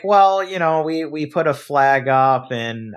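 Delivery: smooth things over like a clerk; placating bank lady. Retold or imitated.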